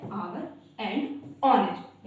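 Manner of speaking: "आवर" and "honest" with no h; teacher gives the correct "आवर and honest"; silent h. Shown as a demonstration. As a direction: say "आवर and honest" opening on the vowel. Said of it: "correct pronunciation होता है".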